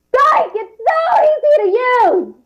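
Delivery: screaming, sounding pained. Asked to try saying a product's ad line: screaming, sounding pained. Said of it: "When you're screaming, it sounds like you're pained".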